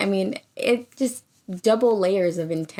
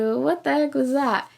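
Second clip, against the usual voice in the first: possessed; 5 semitones higher than usual. Retold or imitated. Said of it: "Like a woman possessed".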